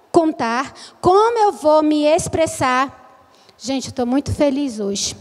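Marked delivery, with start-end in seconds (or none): 3.6-5.2 understated, joyless claim of being happy; unenthused happiness. Shown as a demonstration. Teacher showing listeners words that don't match delivery, unenthused. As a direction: say it without any enthusiasm. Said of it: "Eu tô passando isso que eu tô feliz?".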